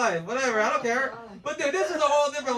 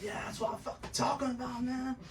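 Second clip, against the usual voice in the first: proud cholo; 12 dB quieter than usual. Retold or imitated. Proud half brother hearing about jail, soft cholo voice. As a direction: play a cholo quietly pleased. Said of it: "he's very proud of me".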